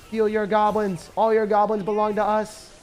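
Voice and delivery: stiff robot voice. Pretend. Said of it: "I tried to do a robot voice".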